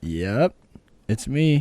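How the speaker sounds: loud, put-on cocky, smug, self-satisfied tone. Retelling own reply to an old acquaintance: imitating own smirking reply. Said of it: "I knew you would say it like that".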